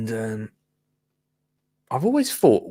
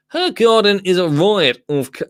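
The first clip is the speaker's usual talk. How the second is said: mock newsreader delivery, a little higher and louder; news voice; 6 semitones higher, 4 dB louder than usual. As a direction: read it like a TV news anchor. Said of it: "it's my news voice now".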